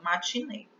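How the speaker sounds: "matinê" with a closed final E. Shown as a demonstration. Teacher showing her own pronunciation with a closed E. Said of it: "pronuncio com E fechado".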